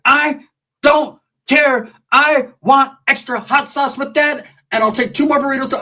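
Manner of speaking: high-pitched imitation of a woman mid-fight; high mock yell. Acts Sheila ordering food while fighting.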